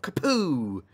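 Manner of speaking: desktop sound effect. Shown as a demonstration. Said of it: "It's the sound of a desktop".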